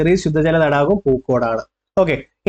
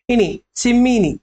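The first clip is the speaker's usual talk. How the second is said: drawn-out tease; 7 semitones higher, slower than usual. Real, not acted. Teacher dramatizes tricky option.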